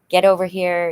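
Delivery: loud, urgent summons; firm loud get over here; urgent call. Retold or imitated. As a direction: call her over right now. Urgent call to sick daughter.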